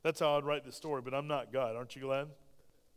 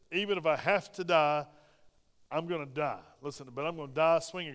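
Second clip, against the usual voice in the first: defiant boast; 6 dB louder than usual. Acted. Peter imagined fighting.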